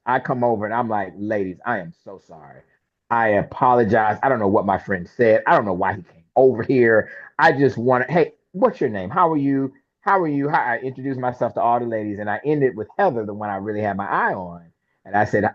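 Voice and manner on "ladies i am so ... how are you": apologetic approach. Retold or imitated. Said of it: "I'm a thousand apologies".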